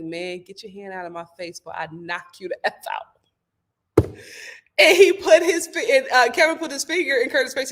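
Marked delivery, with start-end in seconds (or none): 0.0-4.1 menacing threat. Retold or imitated. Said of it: "Kevin was just like".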